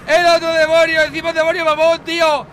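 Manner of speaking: loud, frantic alarm; panicked shout. Acted. Seeing the other demon, yelling in panic. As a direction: scream it like a monster is coming.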